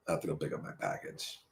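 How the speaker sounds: very quiet, low, quick aside; barely audible low repeat; low undertone. Real, not acted. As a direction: drop right down, as if to yourself.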